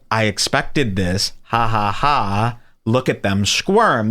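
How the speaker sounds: low, slow, smug mock laugh; a calm gloating villain, unbothered; cool troll. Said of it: "you go".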